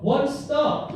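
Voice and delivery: high, loud disbelieving question; incredulous echo. Real, not acted. Comedian echoes an audience member's shop name, incredulous. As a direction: throw the name back in amazement.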